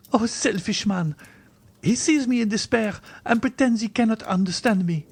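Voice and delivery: put-on high-pitched, wounded young woman; distressed heroine, very high voice; despairing Valentine. A narrator's reading. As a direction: cry out the reproach, high. Valentine reproaches Morrel.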